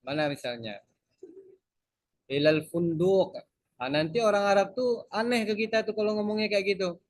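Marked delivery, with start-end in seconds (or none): 2.3-3.4 slow, careful textbook Arabic greeting; formal Arabic greeting. Shown as a demonstration. Teacher shows students how a taxi greeting sounds. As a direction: spell out the polite fusha words slowly. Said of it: "nanti kita bilang".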